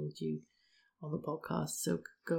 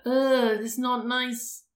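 put-on whiny child; 6 semitones higher, 6 dB louder, much slower than usual. Kids complaining about sunscreen.

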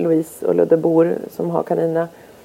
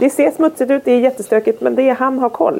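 sweetly coaxing; 8 semitones higher than usual. Retold or imitated. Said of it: "Jag bara".

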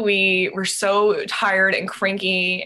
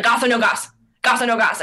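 retold yell; 4 semitones higher, 4 dB louder than usual. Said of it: "he's, like, yelling at me".

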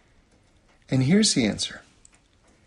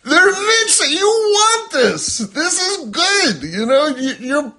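God pleading; 12 semitones higher, 7 dB louder than usual. Retold or imitated. God urging people to want the mitzvah, tearful and pleading. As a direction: plead like a loving parent with a stubborn child. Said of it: "And God is like".

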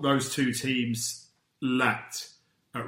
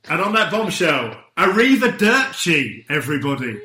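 mock sign-off; 4 semitones higher, 8 dB louder than usual. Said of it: "See what I've done there? I've ended with an Italian thing".

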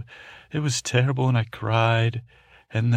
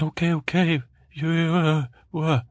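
flustered and higher, tripping over words; startled stammer; 8 semitones higher, 4 dB louder than usual. Acted. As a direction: caught off guard, voice jumping up. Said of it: "Like that".

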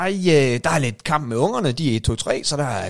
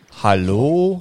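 calling out; 5 dB louder than usual. Real, not acted. Calling to caller on poor line.

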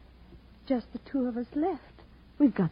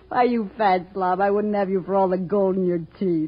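scornful insult; 5 dB louder than usual. Acted. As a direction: spit it at the fat slob. Rejecting his proposal with scorn.

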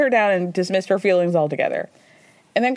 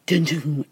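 dramatic dun dun; 5 semitones lower than usual. Shown as a demonstration. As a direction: hum a moody suspense cue. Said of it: "moody music".

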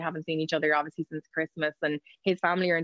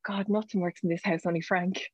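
whispered nana line. Retold or imitated. Nana grumbling about the broken house, whispered and dry. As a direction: murmur it like a dry grandmother's jibe. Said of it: "my nana used to say".

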